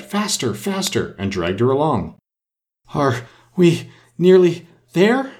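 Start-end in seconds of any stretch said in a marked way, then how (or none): 0.0-1.1 urgent crying out. A narrator's reading. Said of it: "the queen cried". 2.9-5.3 high, slow gasped question, word by word; panting. A narrator's reading. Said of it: "Alice managed to pant out at last".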